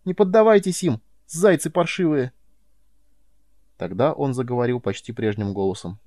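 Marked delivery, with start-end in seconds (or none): 0.0-2.3 high, loud furious yell; boy screaming at the hares in a fury. A narrator's reading. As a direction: shout it out in hysterical rage. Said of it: "и заорал опять".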